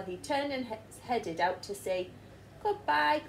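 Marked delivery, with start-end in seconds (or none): 2.6-3.2 higher farewell call. Acted. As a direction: wave it out to sea. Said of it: "called the villagers".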